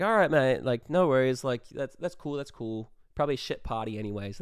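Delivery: a mock-casual Australian accent; bad Australian accent. Turned away at the frat gate, fake Australian accent. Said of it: "with our Australian accents".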